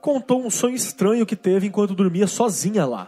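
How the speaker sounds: reading a listener's letter aloud; steady storytelling read; story narration. Acted.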